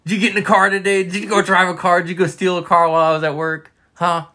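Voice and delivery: high, silly quizzing of a dog; pet-talk voice. Acted. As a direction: pepper a pet with questions in baby talk. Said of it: "when we talk in that voice".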